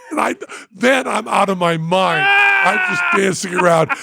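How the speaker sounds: can barely contain the glee; excited yelling. Real, not acted. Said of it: "I just screaming".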